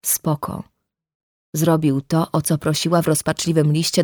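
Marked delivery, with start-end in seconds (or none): 0.1-0.6 breathed, voiceless echo of the word; a toneless whispered echo; unvoiced echo. A narrator's reading. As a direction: let it fall away as a bitter breath. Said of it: "Ale nic nie było".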